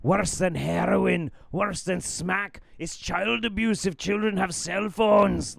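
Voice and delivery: high-pitched mock alarmist rant; Mark Bayerski impression. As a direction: mimic a ranter sounding the alarm. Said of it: "on Rumble and he's like".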